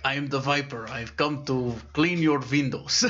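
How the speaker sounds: lightly voiced old window cleaner with a v for w; little old man. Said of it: "there's this little old man with a bucket".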